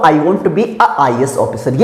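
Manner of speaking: slow, careful reading of the wrong sentence; wrong version. Shown as a demonstration. Teacher slowly reading the incorrect sentence with a. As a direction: read it slowly as the example of a mistake. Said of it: "मैं ये नहीं बोल सकता हूँ".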